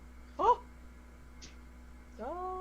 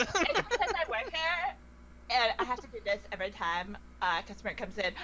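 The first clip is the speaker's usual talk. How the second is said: lightly voiced ditzy barmaid, quick finish; casual Valley Girl server. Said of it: "a Valley Girl barmaiden".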